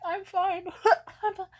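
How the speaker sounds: squeaky high, loud brave front; forced I'm fine. Retold or imitated. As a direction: pretend it doesn't hurt. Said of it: "I was like".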